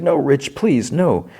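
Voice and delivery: high-pitched pleading, imitating distress; mock tearful plea. Marge begging Rich not to shut her in, high mock plea. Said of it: "she's, like, sobbing".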